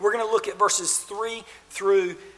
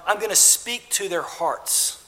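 tender. Acted. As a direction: lay it down gently on the heart. God speaks to their hearts.

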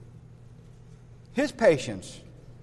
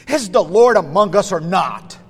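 mildly incredulous challenge; a touch of petulant doubt, falling at the end; scornful petulance; 4 dB louder than usual. Acted. Israelites question God's presence, scornful and doubting. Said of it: "you can hear their scorning petulance and their incredulous doubt".

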